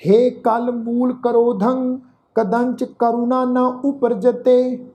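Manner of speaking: slow, drawn-out chant of the verse; scripture recitation. Shown as a demonstration. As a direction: intone each word slowly and devoutly. Full verse recited for listeners. (ਹੌਲੀ ਹੌਲੀ ਪਾਠ ਉਚਾਰਨ)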